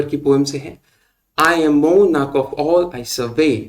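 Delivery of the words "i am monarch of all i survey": very slow, "mon", "all" and "vey" leaned on; scanned verse, slowly; anapestic reading. Shown as a demonstration. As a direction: beat out da-da-DUM three times. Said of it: "इसमें भी unstressed".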